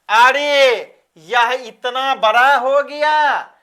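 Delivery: mildly acted surprise at a grown child; आकस्मिक आश्चर्य. Shown as a demonstration. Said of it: "तो आकस्मिक feeling". (हैरानी से खींचकर)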